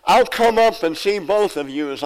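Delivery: mock yell for the punchline. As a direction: act out hollering up to sisters. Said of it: "And then she yells".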